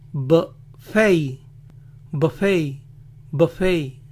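"buffet" as "buh-FEY", silent T; short weak U, stressed "fey" in "buffet"; English pronunciation. Shown as a demonstration. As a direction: say "buffet" the American way, buh-FAY. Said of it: "va a sonar como una A cortita".

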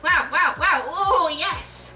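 high, loud burst of wows; overwhelmed excitement. A narrator's reading. Peter is overwhelmed by his camera, high excited cries.

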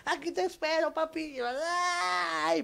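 high, drawn-out mock cry, held back in volume; long high wail as if flying through the air; man leaping. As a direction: imitate a distant falling lover's cry. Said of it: "se avienta el vato".

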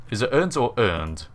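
"earned" first ending in t, then in d; "earned" said as "earnt", then as "earned"; contrasting endings. Shown as a demonstration. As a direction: set a crisp t ending against a d ending on "earned". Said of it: "can be spelt with a E D".

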